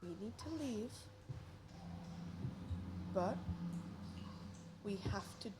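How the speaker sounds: hushed urgent whisper. Acted. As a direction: whisper it close and careful. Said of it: "whisper to you".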